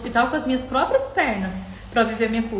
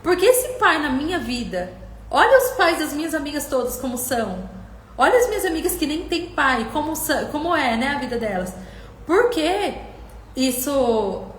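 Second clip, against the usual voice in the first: retold anguished protest; 4 semitones higher than usual. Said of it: "Eu falava".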